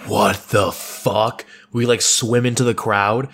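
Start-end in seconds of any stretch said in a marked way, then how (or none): 0.1-1.4 slow, drawn-out disbelief; stunned. Retold or imitated. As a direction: gasp it out jaw dropped. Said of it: "jaw dropped".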